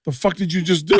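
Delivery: high-pitched mock shock; retold disbelief. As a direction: act out an appalled, high-voiced question. Retold shocked reaction to daughter's blunder.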